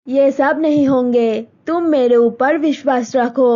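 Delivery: John comforting Malti about the wedding; reassuring boyfriend. Acted. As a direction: soothe her, promise to come back.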